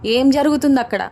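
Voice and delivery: jealous wife yelling at a stranger on the phone; shouting angrily. Acted. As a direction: tear into her over the phone. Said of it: "గట్టి గట్టిగా అరుస్తుంది".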